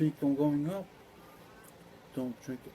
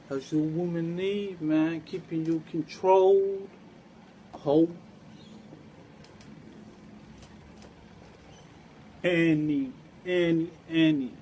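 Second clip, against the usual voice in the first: loud teasing call; 6 dB louder than usual. Real, not acted.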